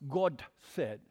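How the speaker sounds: lightly mocked old-time preacher, low and drawn out; a hint of affected, low preacher solemnity; put-on preacher voice. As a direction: imitate a preacher's pulpit voice on "God". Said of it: "preached in a different voice".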